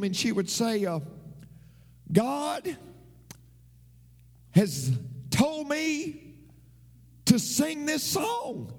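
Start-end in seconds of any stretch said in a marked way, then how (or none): 2.1-8.7 mock solemn singer. Mimics the singer's announcement.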